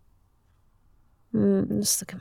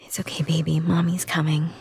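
put-on soothing a child; 2 semitones lower than usual. Comforting a child after a nightmare.

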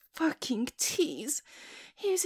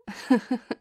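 teasing laugh; 4 dB louder than usual. Acted. Laughing at her own challenge.

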